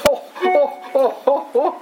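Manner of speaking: high, breathy oh-oh laughs held back; high stifled laughing. Retold or imitated. Coworker on the phone hides his laughter as sobs. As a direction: laugh in bursts, pretending it's sobbing. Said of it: "started laughing like that".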